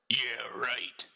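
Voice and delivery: whispered scoff; a stranger scoffing at a priest in a whisper; sarcastic whisper. Acted. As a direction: breathe it out, doubting every word.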